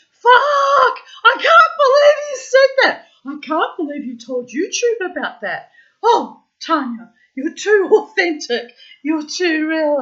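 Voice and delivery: very high, loud, laughing self-scolding; mock horrified. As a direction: shriek at herself, half laughing. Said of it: "I'll be like".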